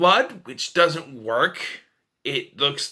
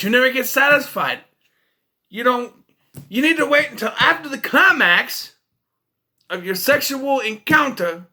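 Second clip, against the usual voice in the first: higher-pitched exasperated telling-off; mock scolding; 6 semitones higher than usual. Viewer lecturing the seductress on her timing, mock scolding. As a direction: chew her out with comic outrage.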